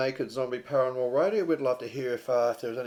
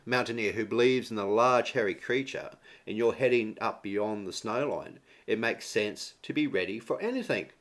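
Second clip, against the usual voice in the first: measured radio announcer read; best radio voice. Acted. Co-host reading Yeti insurance news to listeners, radio voice. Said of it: "I'll read in my best radio vo".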